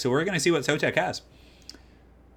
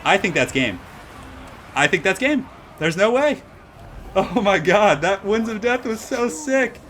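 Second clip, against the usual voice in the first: real hype; 9 semitones higher, 5 dB louder, slower than usual. Real, not acted. Caster celebrates decisive spell.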